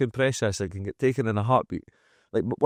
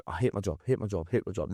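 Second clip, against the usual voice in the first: droning mock complaint; 2 semitones lower, 7 dB quieter than usual. Mimicking workers' droning complaint.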